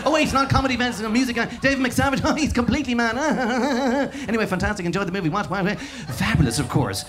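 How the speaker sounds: a lightly voiced rambling radio DJ, laughing as he goes; a hint of a giddy DJ chatting live on air; Dave Fanning. DJ rambling live to listeners at a festival, lightly mimicked and laughing. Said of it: "It's Dave Fanning here".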